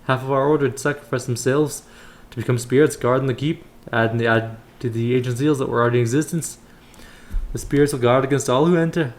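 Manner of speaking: put-on voice of a temple elder; measured, formal elder's counsel; kindly elder priest. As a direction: instruct the young adventurer as a solemn old brother. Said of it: "What was his voice again?".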